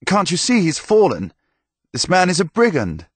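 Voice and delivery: put-on young blond knight dismissing Thomas, high and scornful; youthful knight. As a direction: brush him off with scorn.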